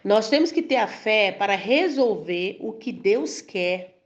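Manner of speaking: slow, deliberate preaching line; slow emphatic teaching. Real, not acted. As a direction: spell out the key point slowly for the congregation. Preacher drives the key point home. (pregação pausada e enfática)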